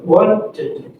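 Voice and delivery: "Wanted" split into "won-tid"; two syllables. Shown as a demonstration. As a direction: give "Wanted" two clear beats. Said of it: "two syllables".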